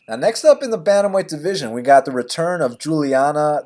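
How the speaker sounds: rehearsed announcer intro; practicing a speech. Shown as a demonstration. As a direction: run through the show intro. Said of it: "let me start this over".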